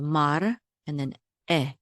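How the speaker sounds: mar, then eh begun separately after a stop; glottal stop. Shown as a demonstration. Teacher showing the aleph's stop, mar and eh kept apart. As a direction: cut off after mar and start eh cleanly. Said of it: "The aleph is also glottal stop".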